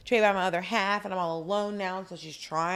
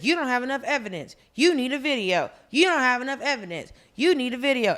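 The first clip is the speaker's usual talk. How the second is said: mock ranting; 3 semitones higher, faster than usual. Acted quote of ranting husband.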